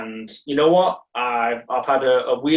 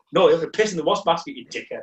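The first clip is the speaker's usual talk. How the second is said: retold scolding, rattled off fast; mock telling-off in a quick rush; livid housemate; 4 semitones higher, faster than usual. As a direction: lightly imitate an exasperated housemate telling you off. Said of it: "he was so livid".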